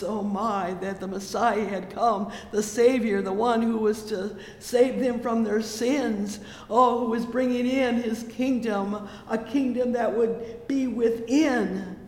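fervent full-voiced preaching; preaching at full force. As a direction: pour it out like a revival climax. Preaching climax on the Savior.

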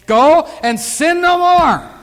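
loud, high, drawn-out proclamation; forceful command. Acted. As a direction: preach it slowly at full force. Preacher drives the command home.

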